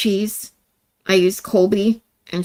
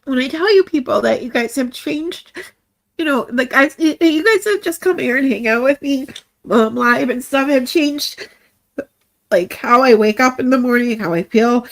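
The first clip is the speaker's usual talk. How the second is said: higher, emotional voice holding back tears; real tearful; 3 semitones higher than usual. Real, not acted. Streamer telling viewers they changed her life, tearful. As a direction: push on through welling tears. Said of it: "now I'm gonna cry".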